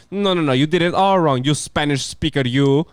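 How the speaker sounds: lightly voiced scolding French teacher; a hint of a disapproving language teacher. French teacher telling off Latino pupils, lightly imitated scolding. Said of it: "I had this lady".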